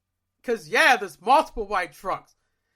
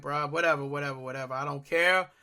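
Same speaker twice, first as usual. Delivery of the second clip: fed up; 7 semitones lower, 3 dB quieter than usual. Retold or imitated. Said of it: "And I'm like".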